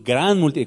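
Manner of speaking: "gran" leaned on and lengthened; emphatic "gran" before "multitud"; stress on GRAN. Shown as a demonstration. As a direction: put added emphasis on the word "gran". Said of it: "con énfasis añadido".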